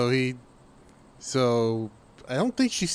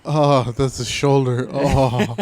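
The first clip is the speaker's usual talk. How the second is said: mock thrilled gasp; 5 dB louder than usual. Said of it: "I'm like".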